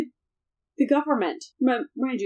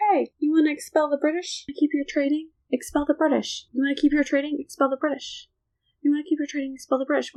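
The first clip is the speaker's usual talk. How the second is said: higher, fast, wheedling pitch; pushy sales pitch; 5 semitones higher, faster than usual. Retold or imitated. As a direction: egg them on like a salesman. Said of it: "he's like, he's like".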